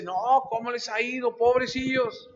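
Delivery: mock pity. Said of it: "mucha gente dice".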